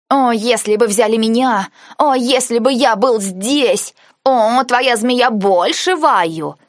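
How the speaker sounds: squeaky teasing mimicry, drawn out; mock him in a squeaky voice. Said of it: "передразнила я писклявым голосом".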